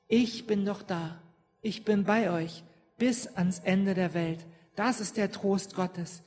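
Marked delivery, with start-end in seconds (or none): 0.1-4.5 slow, reassuring promise; calm Jesus. Retold or imitated. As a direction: promise it slowly and steadily. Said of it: "da sagt Jesus auch". (ruhige, langsame Zusage Jesu)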